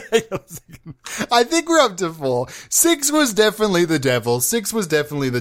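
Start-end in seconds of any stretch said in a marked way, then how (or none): 0.0-0.9 words breaking into a laugh; giggly, half-swallowed delivery. Real, not acted. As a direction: say it through a fit of giggles. Breaks up laughing repeating himself.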